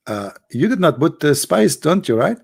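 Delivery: lightly voiced questioning husband, pitch lifting at the end; imitating a husband. Indian friend checking with his wife about spice, mildly imitated questioning. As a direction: put a hint of the worried host into it.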